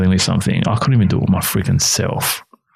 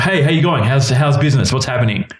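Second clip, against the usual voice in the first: slightly higher, chirpy imitated phone greeting; lightly voiced upbeat mentor; 6 semitones higher than usual. Mentor ringing to check in, lightly imitated cheery greeting. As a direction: imitate a friendly caller checking in.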